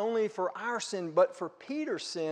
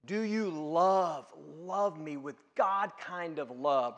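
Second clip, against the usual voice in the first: slow, gentle voicing of Jesus asking; a hint of Jesus pleading; lightly voiced Jesus; 2 semitones lower, slower than usual. Jesus asking Peter about his love, slow and gentle. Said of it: "the word that Jesus uses there is".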